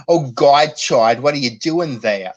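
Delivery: put-on loud Worcester Massachusetts accent, no r at the end of there. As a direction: yell at Chad in a thick Worcester accent. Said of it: "I don't talk like that".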